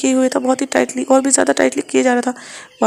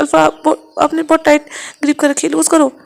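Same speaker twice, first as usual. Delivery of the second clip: pained voice; 4 semitones higher than usual. Acted. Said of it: "पेन की voice निकालता है".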